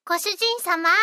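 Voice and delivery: bright, sweet maid welcome; sugary maid cafe greeting. Acted. Maid welcomes her master.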